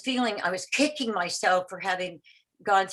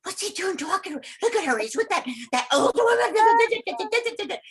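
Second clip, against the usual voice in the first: mocking young girls; 11 semitones higher than usual. Young girls at the meeting sneering at the old woman, high and catty. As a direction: imitate jealous young girls sneering at her. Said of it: "The young girls were going".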